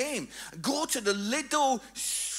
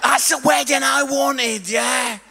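loud, hammed-up comic insistence; mock rant; 5 dB louder than usual. Father telling his daughter about the wedding he wanted, mock rant. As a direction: declare it loudly, pretending to be aggrieved.

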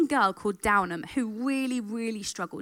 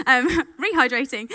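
laughing; 3 semitones higher, 5 dB louder than usual. Real, not acted.

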